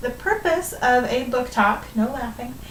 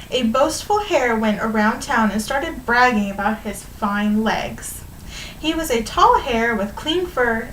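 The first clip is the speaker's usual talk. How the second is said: animated storybook reading to a class; measured read-aloud with stretched key words; story read-aloud. A narrator's reading. Teacher reading a fable to students, lively storytelling.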